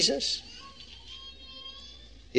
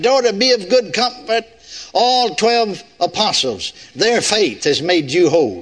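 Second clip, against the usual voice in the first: mock misquote. Shown as a demonstration. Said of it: "It took twelve of them".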